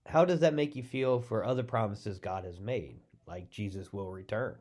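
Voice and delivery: normal talking voice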